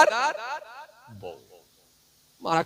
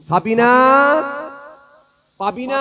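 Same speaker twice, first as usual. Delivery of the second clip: calling out; 8 semitones higher, 8 dB louder than usual. Retold or imitated. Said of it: "ডাকতে শুরু করেছে".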